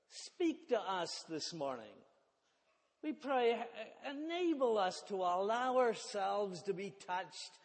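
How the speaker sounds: earnest spoken prayer, settling at the close; congregational prayer. Real, not acted. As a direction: lead the church in prayer.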